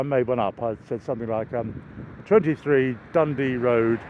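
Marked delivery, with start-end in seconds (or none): 2.3-4.0 fake Scottish accent. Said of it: "So I went all Scottish".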